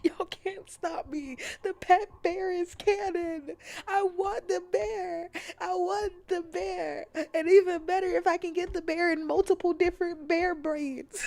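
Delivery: excited demand. Real, not acted. Streamer defiantly demanding a pet bear from chat.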